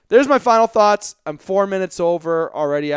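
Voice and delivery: breathless, pushing the words out; winded, gasping between phrases; out of breath. Real, not acted. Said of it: "Whew, I'm out of breath".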